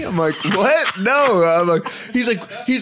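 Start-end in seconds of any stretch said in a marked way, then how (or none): 0.5-1.4 high-pitched retold disbelief; mock-startled "no"; incredulous denial. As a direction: act out brushing off a crazy suggestion. Retells own denial to brother.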